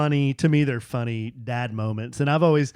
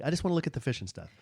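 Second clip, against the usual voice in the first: put-on eager kid; 7 dB quieter, much faster than usual. Voicing the son.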